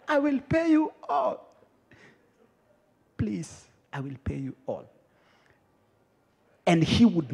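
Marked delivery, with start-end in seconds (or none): 0.1-1.5 high, strained choked plea; hammed-up strangled begging; throttled begging. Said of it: "achilia throat yangu". 3.2-4.8 soft, low plea after a pause; subdued acted "please" of a debtor; meek begging.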